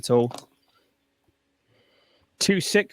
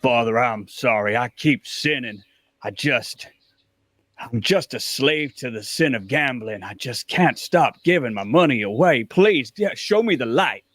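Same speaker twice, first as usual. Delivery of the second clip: fake sobbing. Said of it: "pretending to sob a little bit".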